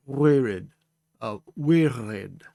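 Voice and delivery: wirid with a gargled back-of-throat R; throaty R. Shown as a demonstration. Teacher trying wirid again, throaty R. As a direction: try wirid with the R rolled in the throat. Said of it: "We can also say w".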